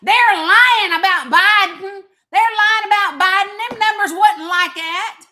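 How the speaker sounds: loud, mocking whine of his critics; hammed-up shout of the doubters. Mimicking critics who deny the numbers, loud and mocking. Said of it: "Y'all be like".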